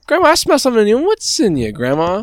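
high, loud cartoon dog voice; hammed-up sniffing-dog character; talking dog. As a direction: play a suspicious dog, pitched high and falling at the end. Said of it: "and the dog's like".

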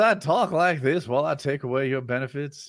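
lightly put-on Southern accent; a hint of a bad Southern accent. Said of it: "You do a bad Southern".

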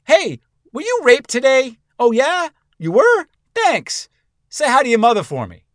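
cheerful hitman making a casual call; goofy thug on phone. Acted. Killer on phone with cousin.

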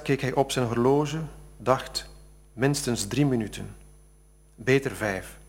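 measured story narration with deliberate pauses; literary reading. Acted. Author reading his novel passage to an audience, measured literary narration. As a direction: read it aloud phrase by phrase, leaning on key words.

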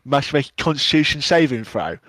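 light Cockney reading; Cockney accent. Shown as a demonstration. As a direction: rules text in a Cockney accent. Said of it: "Now do Cockney".

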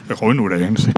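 put-on slow, very low Ures accent; mock Ures accent. Friend joking about the youth from Ures, mock Ures accent. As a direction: draw it out deep, Ures style. Mimics young man from Ures.

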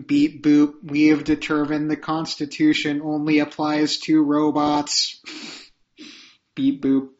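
mock robot with beeps and boops; toy robot voice. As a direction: play a beeping toy robot. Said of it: "It'll be just like that".

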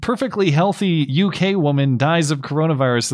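mock headline announcement; headline read. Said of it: "a story in the spring that's like".

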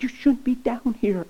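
her voice. Retold or imitated. Girlfriend scolding him in truck.

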